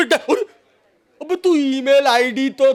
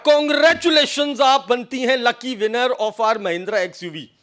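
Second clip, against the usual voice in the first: mock prize announcer; much slower than usual. Scam caller tells the woman she won, in a hammed-up announcer voice. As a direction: sell the fake win like a game-show host.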